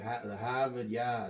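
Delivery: slow Boston accent demo; lightly put-on Boston accent; mock Boston accent. Shown as a demonstration. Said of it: "say it in the accent".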